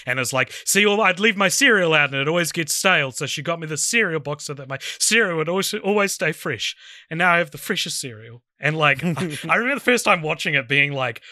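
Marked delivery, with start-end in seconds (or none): 0.7-8.4 lightly acted comic line reading; imitated movie delivery. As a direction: imitate a film character's emotional delivery. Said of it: "try and do a, a fourth-rate version of that delivery".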